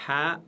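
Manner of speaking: "Ha" with a pushed throat breath; breathy Arabic ha. Shown as a demonstration. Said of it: "toujours légère".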